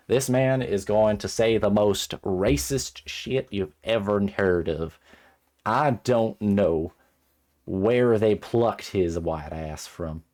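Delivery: loud, slow, emphatic tirade; exasperated rant. Real, not acted. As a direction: drag out every word, loudly appalled. Outraged rant about character Hunter.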